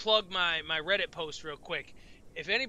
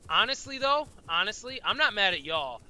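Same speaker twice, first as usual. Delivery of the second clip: high, loud rising "honestly"; excited; 4 semitones higher, 7 dB louder than usual. Real, not acted. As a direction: protest eagerly. Excited protest to chat.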